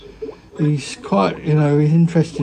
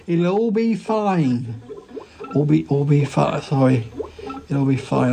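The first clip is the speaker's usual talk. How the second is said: put-on drunk-sounding. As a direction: slur it like you're tipsy. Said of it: "really kind of drunk".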